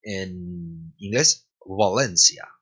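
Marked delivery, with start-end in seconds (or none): 1.6-2.5 "Valencia" lower, begun with a lax, w-like V; "Valencia" as wa-lencia; English Valencia. Shown as a demonstration. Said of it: "Cómo se diría Valencia en".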